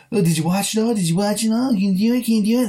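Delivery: mock English taunt. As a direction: needle him in a hammed-up English accent, rising at each question end. Mocking the film's taunting hero.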